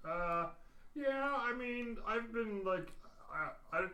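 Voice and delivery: Bull's voice. Acted. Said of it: "Hey, this is Bull".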